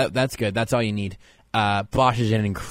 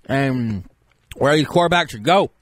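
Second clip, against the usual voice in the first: lightly raised voice of a self-styled expert; pompous draft expert. Acted. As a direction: play a smug know-it-all analyst. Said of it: "you might be surprised to know that I sound this way".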